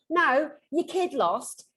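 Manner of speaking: slow blunt telling-off of doting parents; blunt scolding. Real, not acted. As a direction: tell them straight to get over it.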